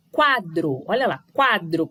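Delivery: "quadro" with QUA strong and DRO weaker; stress on QUA. Shown as a demonstration. Teacher showing pupils which syllable stands out, stressed QUA. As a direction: hit the first syllable of "quadro". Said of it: "o quá, sai forte".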